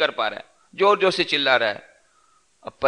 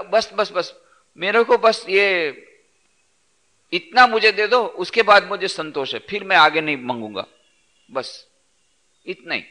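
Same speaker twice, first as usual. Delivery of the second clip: begging voice; 4 semitones higher than usual. Acted. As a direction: beg sweetly for just a little. Desire begs for just this.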